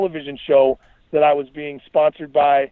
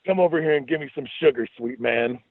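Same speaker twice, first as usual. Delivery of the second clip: sassy. Acted. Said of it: "I sassed".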